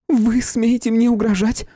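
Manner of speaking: high, loud, slow indignation; outraged lady. A narrator's reading. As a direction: bristle at the threat. Flora outraged at threat.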